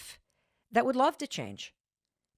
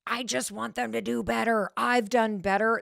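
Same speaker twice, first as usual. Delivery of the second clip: mildly frustrated quote of someone else; a touch of mock exasperation; imitated frustration; 3 semitones higher than usual. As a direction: run it together insistently, lightly mimicking frustration. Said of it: "this frustration that you hear in Lisa's voice".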